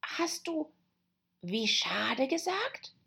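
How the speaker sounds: high, hesitant little rabbit voice; timid rabbit. Acted. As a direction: ask it slowly as a nervous rabbit. Timid rabbit questions Alice.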